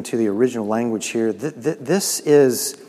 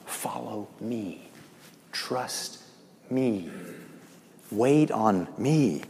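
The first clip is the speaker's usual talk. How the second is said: gentle reassurance. Acted. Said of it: "And he's saying".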